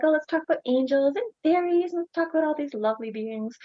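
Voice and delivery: high, airy mock-sweet voice; mock fluffy. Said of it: "keep to this fluffy stuff like".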